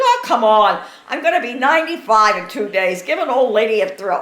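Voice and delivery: retelling mom's cheeky line through laughter; giggling through a mother's cheeky plea; laughing while quoting. Retold or imitated. Mother's cheeky request, told laughing.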